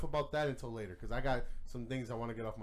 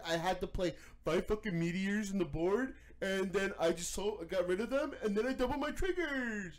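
smug bragging player, pitched up and mocked; mocking Gravidia player; 5 semitones higher than usual. Mocking a bragging Gravidia winner, pitched-up sneering imitation. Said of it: "never hear the fucking end of it".

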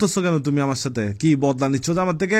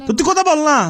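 much higher, loud outburst; exasperated shout; 12 semitones higher, 6 dB louder, faster than usual. Real, not acted. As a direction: yell at them to talk. Caller snaps at sleepy evasive listener. (বিরক্ত হয়ে চড়া গলায় চিৎকার)

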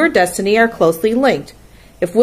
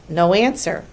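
ordinary delivery

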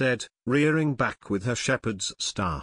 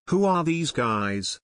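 slow, raised, demanding question; angry question; 4 semitones higher than usual. Acted. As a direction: demand an answer, slowly and hotly. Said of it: "Chumpty asked angrily".

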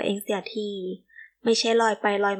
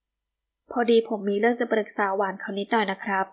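courteous and measured, backing off gracefully; understated polite farewell. Acted. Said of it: "อดิศรบอกด้วยน้ำเสียงสุภาพ".

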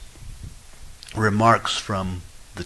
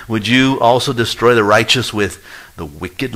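louder, rising plea on "you"; pleading question; 2 semitones higher, 6 dB louder than usual. Acted. Preacher voicing Abraham questioning God, loud pleading rise. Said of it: "he basically is gonna ask God".

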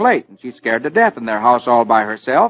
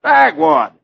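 high, sharp cry of the name; shocked exclamation; 10 semitones higher, 3 dB louder than usual. Acted. Herb finding Dagwood in his bed, shocked cry. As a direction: catch him in your bed, startled. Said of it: "He exclaims".

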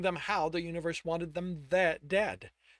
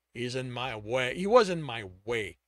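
snarl; 5 dB louder than usual. Acted. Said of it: "Tristan snarled".

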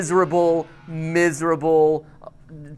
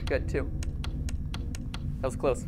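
low, soft murmur of concentration; focused; 5 semitones lower, 9 dB quieter, faster than usual. Real, not acted. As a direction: keep it quiet and low, attention elsewhere. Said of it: "Sorry, I'm focused about this one".

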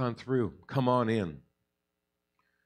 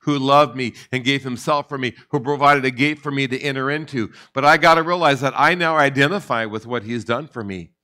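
emphatic preaching; 6 dB louder than usual. Real, not acted. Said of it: "I love that emphasis".

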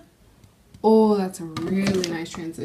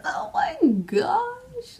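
awed whisper; 13 semitones higher, much slower than usual. Real, not acted. Admiring the swatch.

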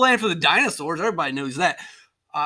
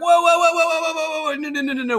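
high, rapid-fire mock protest; alarmed objection; 7 semitones higher than usual. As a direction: act out stopping someone in their tracks. Acted Mexican objection to slaves.

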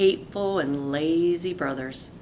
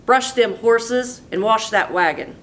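wicked stepdaddy; 5 semitones higher, 5 dB louder than usual. Acted. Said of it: "shouted his wicked stepdaddy".

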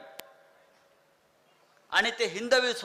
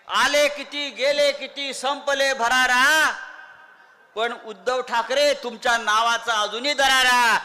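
rousing rally shout; 3 semitones higher, 3 dB louder, slower than usual. Real, not acted. Rally climax, rhyming couplet.

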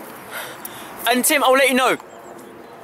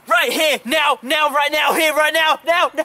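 shouting; 3 semitones higher than usual. Real, not acted. Escalating demand.

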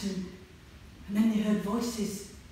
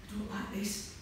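scared hushed line, softer; whispered; 8 dB quieter than usual. Acted. Jo clutching George's arm, scared soft whisper. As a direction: breathe it out nervously. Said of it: "whispered Jo".

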